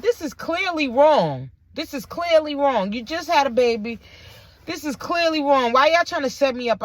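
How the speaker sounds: exasperated complaint, replayed; upset. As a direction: insist on it, aggrieved and emphatic. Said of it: "I get so upset".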